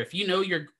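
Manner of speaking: hiccuping mid-sentence; a hiccup breaks the words. Real, not acted. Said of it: "excuse me, I get the hiccups now".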